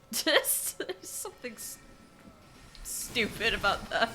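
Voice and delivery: high, loud words through laughter; laughing while talking. Real, not acted. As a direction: crack up as you speak. Cracks up at the French word.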